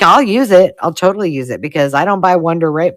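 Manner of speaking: mock-eager gushing; eager retold reply. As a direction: gush to your friends. Retelling her eager reply to friends.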